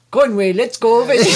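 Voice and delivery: badly faked, quick Australian accent. Australian guide calls Conway over, poor Australian accent. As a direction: rush an Australian accent, about to crack up. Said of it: "let's do Australia".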